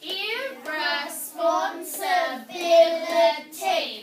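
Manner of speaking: IRRESPONSIBILITY loud and slow, every syllable apart; loud teacher model of IRRESPONSIBILITY in parts. Shown as a demonstration. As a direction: break IRRESPONSIBILITY into seven beats. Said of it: "Let's clap it".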